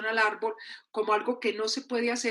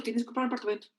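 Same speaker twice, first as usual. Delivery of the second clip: dutiful echo; 4 dB quieter, much faster than usual. Acted. Repeating what everyone expects, dutiful lowered echo. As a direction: recite it back as a chore. Expectation, then compliance ticked off.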